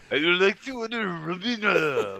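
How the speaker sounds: high, put-on foreign accent; fake Asian accent. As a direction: ham up a bad accent. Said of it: "your Asian accent".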